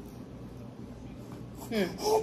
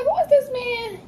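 suspicious outburst; 12 semitones higher than usual. Retold or imitated. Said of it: "I'm like".

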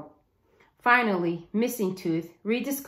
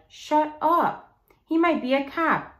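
put-on higher, sharp kid's rebuke; angry scolding; 8 semitones higher than usual. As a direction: cut him off before he says more. Russell scolds his friend.

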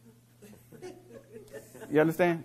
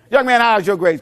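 louder, higher stern question; stern coach; 7 semitones higher, 10 dB louder than usual. Retold or imitated. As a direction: bark it like a coach. Coach quizzing player.

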